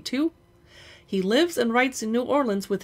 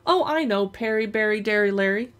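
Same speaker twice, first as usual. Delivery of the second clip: lightly voiced taunting sister; 3 dB louder than usual. Brendy mocking Perry's name, a hint of sing-song. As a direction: rhyme his name to needle him. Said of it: "Brendy stuck her tongue out".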